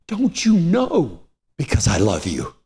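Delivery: tender retold reassurance, settling down from high; loving, gentle reply; kind, gentle voice. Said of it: "the most kind and gentle voice".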